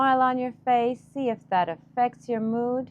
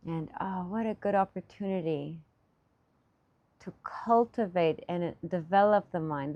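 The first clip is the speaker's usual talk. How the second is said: softer, lower meditation voice; guided meditation; 3 semitones lower, 5 dB quieter than usual. Acted. Teacher guiding meditators to cultivate the mind, soft guided meditation. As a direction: ease them gently into practice, low and quiet.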